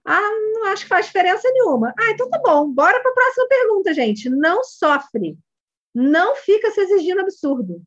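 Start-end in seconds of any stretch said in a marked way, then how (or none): 0.1-1.9 put-on child's voice. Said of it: "child's reply voiced". 2.0-4.3 light, breezy. Shown as a demonstration. Coach lightly moving on.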